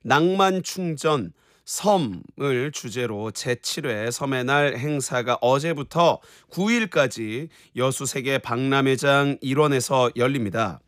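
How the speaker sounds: slow, measured presenter read; quiz question read. Real, not acted. Host setting a radio quiz question, measured presenter voice. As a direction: read it out slowly and clearly for listeners.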